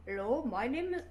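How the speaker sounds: a lightly voiced Canute, lilting up and down; sing-song Canute voice. Streamer imitates Canute's up-down voice for a friend, a light sing-song lilt. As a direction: let the words dance up and down like a song. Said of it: "his voice is like a dance, like the up down".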